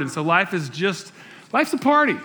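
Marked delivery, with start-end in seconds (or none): 1.5-2.2 excited. Acted. Playful exclamation.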